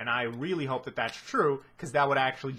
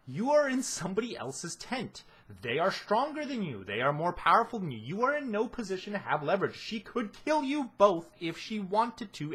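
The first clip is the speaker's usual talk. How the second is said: indignant scolding, pitched up; angry rant; 5 semitones higher than usual. Real, not acted. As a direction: tear into her, exasperated. Ranting at Weiss.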